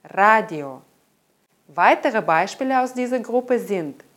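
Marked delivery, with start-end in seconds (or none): 0.0-0.8 Radio said RA-dio, the final O kept as a clear O; full unstressed O. Shown as a demonstration. Teacher demonstrating the O in a loanword, full O. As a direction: stress the A of Radio, keep the O full. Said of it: "Trotzdem wird das O wie O ausgesprochen".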